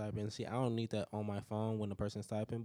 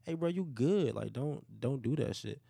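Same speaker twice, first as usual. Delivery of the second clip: retold warning; 6 semitones higher than usual. Retelling warning off a stranger.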